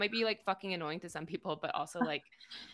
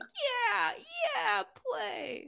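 high mock voice; 3 dB louder, much slower than usual. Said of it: "the people are like".

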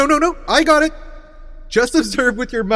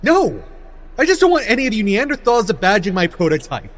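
indignant shouting; 4 dB louder than usual. Acted. Arguing angrily with audience.

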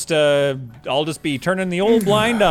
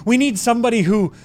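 panicked; 6 semitones higher than usual. Acted. Panicked plea for help.

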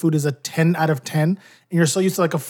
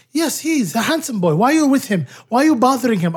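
mom voice; 7 semitones higher, 3 dB louder than usual. Retold or imitated. Comic retelling of his mom.

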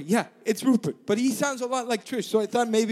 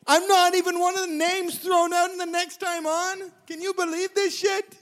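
excited; 7 semitones higher, slower than usual. Real, not acted. Thrilled about making the merge.

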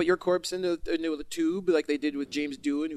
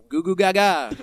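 mock baby talk; 3 semitones higher, 5 dB louder than usual. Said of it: "from the mouths of babes".

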